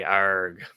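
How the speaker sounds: playful pirate "arrr"; pirate growl. Pretend. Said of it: "Today is Talk Like a Pirate Day".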